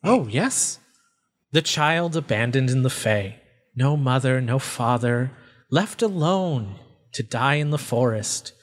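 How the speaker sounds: lightly voiced, savoring each phrase; taunting otherworldly being. Faceless voice taunts an abandoned child, lightly menacing. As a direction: needle them with mock pity.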